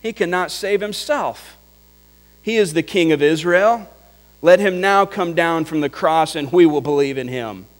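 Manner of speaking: high, sneering jeer; mocking priests. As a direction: scoff at him as the chief priests. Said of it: "were mocking him and saying".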